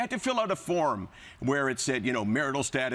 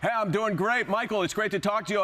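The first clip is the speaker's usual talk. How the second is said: botched fighter impression, higher pitch; George Saint Pierre; 5 semitones higher than usual. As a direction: badly imitate the guest, sliding toward Yiddish. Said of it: "I started to sound like I'm, I'm Yiddish".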